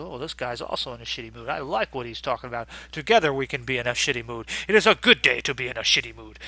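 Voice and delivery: a hint of a grumpy Klingon, fast and mocking; mock Worf's sour, gloomy agreement. Mocking grumpy Worf on vacation, lightly voiced. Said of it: "He's in a shitty mood the whole vacation".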